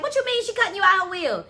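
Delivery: high-pitched flustered question; scattered. Acted. Miss Vernita questioning Sade about the will, scattered. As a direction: question it as if rattled by the news. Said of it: "Miss Vernita was scattered".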